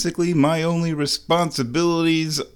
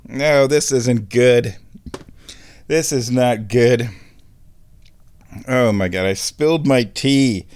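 mock panic. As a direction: play the spilled-tea disaster as a fake crisis. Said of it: "full-blown panic is about to set in".

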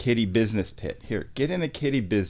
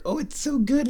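much higher cooing pet voice; baby talk to cat; 14 semitones higher than usual. Shown as a demonstration. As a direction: sell the water to the cat. Coaxing cat to drink.

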